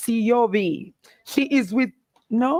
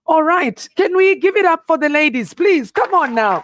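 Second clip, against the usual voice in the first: louder, rallying call for applause; hyping up the crowd; 3 semitones higher, 5 dB louder than usual. Real, not acted. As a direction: pump the room up for the ladies. MC asks applause for ladies.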